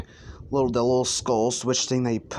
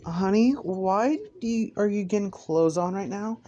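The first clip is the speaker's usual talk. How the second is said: high, questioning mom voice; puzzled mother; 6 semitones higher than usual. Acted. Mother seeing son get dressed, puzzled high voice. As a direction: ask in a higher motherly voice.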